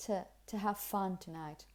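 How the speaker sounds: "to" as short "tuh"; connected, unstressed "to"; relaxed weak form. Shown as a demonstration. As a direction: slide over "to" into "have fun". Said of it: "in a very relaxed and weak way".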